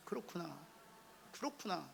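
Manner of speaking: very soft murmured "그렇구나"; soft empathy. Shown as a demonstration. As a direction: model a tender "그렇구나" for the partner. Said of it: "한번 해보세요". (옆 사람 손 잡고 아주 작게 "그렇구나")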